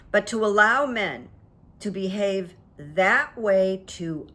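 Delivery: slow, careful quote reading; reading aloud haltingly. Shown as a demonstration. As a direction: read each phrase slowly and deliberately. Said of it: "I'm gonna read it slowly".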